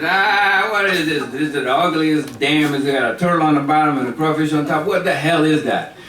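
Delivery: poking fun, mildly hammed-up; mocking. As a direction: hoot at an ugly sight. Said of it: "they're making fun of".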